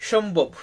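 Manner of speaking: presenting the Bengali word ഷംബോബ് to learners; Bengali pronunciation. Shown as a demonstration. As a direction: clear teacher model of ഷംബോബ്. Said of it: "ആ വാക്ക് ഇങ്ങനെയാണ്".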